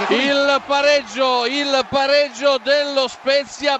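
excited goal call, drawn out; breathless italian goal commentary. Real, not acted. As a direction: call the equaliser with rising excitement. Goal call, repeated with rising excitement. (telecronaca concitata del gol)

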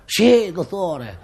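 slow, drawn-out earnest line reading; milk it like a bit player's big moment; hammed-up heartfelt reply, each word stretched; soulful actor's delivery. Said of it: "ci ho messo tutta l'anima".

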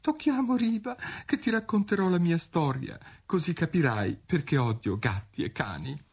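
high, quavering little mouse; tremulous mouse voice. A narrator's reading. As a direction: speak as a trembling mouse, pitched high. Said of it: "bisbigliò con voce tremula".

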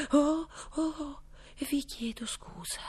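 flustered, hushed apology; dismayed. A narrator's reading. Alice apologising to the jury, dismayed. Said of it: "esclamò costernata".

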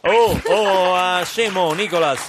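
loud, offended reaction; indignant outburst. Acted. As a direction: blurt it out, insulted. Father reacting angrily to insult.

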